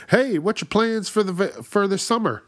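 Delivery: put-on high, nosy small-talk voice of an old man at the urinal; mock creepy stranger. Mocking the old man who asks about summer plans, high prying voice. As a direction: pitch it up like a prying old guy.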